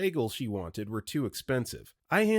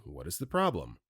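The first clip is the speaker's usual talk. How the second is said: calm, lower-pitched question; 6 semitones lower, 3 dB quieter than usual. A narrator's reading. Cop questioning an irate customer, very calmly. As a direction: ask it evenly, keeping things calm. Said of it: "again, very calmly".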